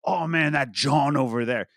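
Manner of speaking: casual Philly slang demo; Philly accent. Shown as a demonstration. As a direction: toss out "John" as jawn, Philly style. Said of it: "they, like, say, like".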